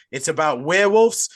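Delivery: mock-Australian with drawn-out words; a failed accent gone Australian; botched Australian accent. Host pitching a werewolf film, botched Australian accent. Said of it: "I just went back to Australian".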